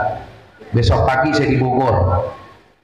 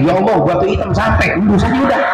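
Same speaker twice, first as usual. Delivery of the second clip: crying out; 4 semitones higher than usual. Acted. Acted prayer at the Black Stone.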